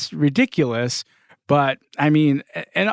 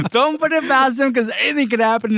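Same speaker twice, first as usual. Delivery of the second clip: higher teasing repeat; 10 semitones higher than usual. Real, not acted. Repeats warning, voice jumps up.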